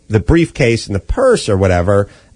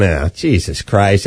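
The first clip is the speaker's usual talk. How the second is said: exasperated; 5 semitones lower, slower than usual. Retold or imitated. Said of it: "I was just standing there going".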